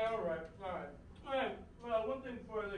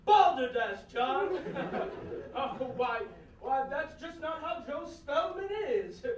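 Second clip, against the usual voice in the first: posh gentleman voice. Acted. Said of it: "you were just gonna come out here".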